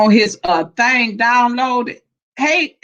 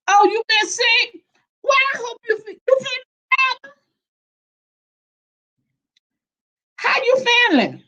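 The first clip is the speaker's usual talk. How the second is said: high and bright-voiced, calling out with care; high, eager well-wishing; excited concern; 10 semitones higher than usual. Real, not acted. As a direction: sound thrilled to see them and sorry they were sick. Greeting someone who was sick.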